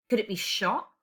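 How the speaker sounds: normal talking voice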